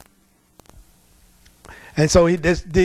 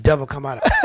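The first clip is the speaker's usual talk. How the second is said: laughing command; 4 semitones lower than usual. Retold or imitated. Pastor laughs mid-command at demon.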